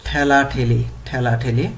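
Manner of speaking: ঠেলা ঠেলি said clearly as thela-theli; pronunciation drill. Shown as a demonstration. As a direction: model ঠেলা ঠেলি twice for students. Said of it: "উচ্চারণ করতে হবে এইভাবে".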